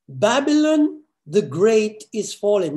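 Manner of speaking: slow, loud proclamation of doom; mighty cry. Acted. Preacher voicing the angel's mighty cry to the congregation, loud and slow. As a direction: announce the fall like the angel crying mightily. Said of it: "what is he saying with so much might and, and voice and decibel".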